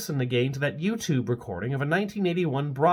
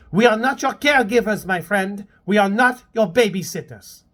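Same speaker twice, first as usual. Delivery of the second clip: stern scolding; 7 semitones higher, 6 dB louder than usual. Acted. Maëlle scolding Kurt.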